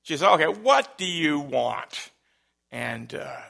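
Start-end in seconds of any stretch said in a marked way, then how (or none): 0.2-2.1 mildly exasperated, louder imitation of mom; frustrated mom. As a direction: act out a mother losing patience. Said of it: "my mom at this point is getting frustrated".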